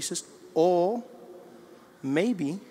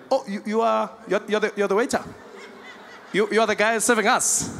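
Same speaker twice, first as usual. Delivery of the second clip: higher, stammering astonishment; stunned disbelief; 5 semitones higher than usual. Retold or imitated. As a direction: stumble over the words in delighted shock. Diner shocked white man serves him.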